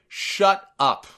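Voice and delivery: a milder echo of pure contempt; disgusted. Retold or imitated. Narrator retelling Cole's line to JBL, mildly disgusted. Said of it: "in the most disgusted tone that you've ever heard".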